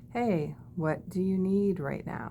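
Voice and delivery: slowed, gentle "what do you need"; calm check-in. Shown as a demonstration. Coach calming a freaking-out coworker, slowed and gentle. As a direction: soothe a panicking person slowly. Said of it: "Maybe not in that tone".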